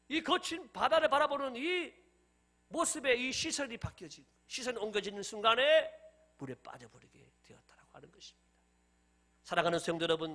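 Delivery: ordinary talk, nothing marked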